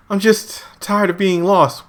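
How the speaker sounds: mock weary crying woman. Weeping woman explaining to cult member, slow mock weariness. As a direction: drag it out high like a tired crier.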